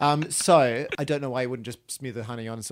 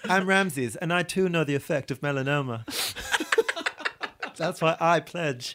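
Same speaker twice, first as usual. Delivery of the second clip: Ramses voice; 2 semitones higher than usual. Pretend. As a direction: declare it as a pompous king. Introduces as Ramses.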